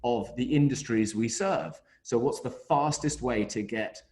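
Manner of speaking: choppy, dropping-out call audio; glitchy robotic call; audio breaking up. Real, not acted. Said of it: "we're breaking up".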